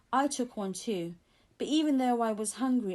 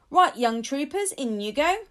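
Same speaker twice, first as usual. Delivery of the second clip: brisk; 4 semitones higher, 8 dB louder than usual. Acted. Officer hurrying kids into car.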